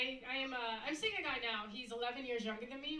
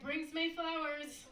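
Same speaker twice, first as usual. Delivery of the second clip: cheerful finish of the saying; 5 semitones higher, much slower than usual. Retold or imitated. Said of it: "And I was like".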